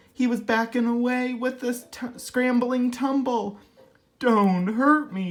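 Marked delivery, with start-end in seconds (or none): 4.2-5.3 a touch of whimpering fear, slow; mild whimper. Acted. The frightened lion begging the mouse, mild whimper. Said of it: "he whimpered".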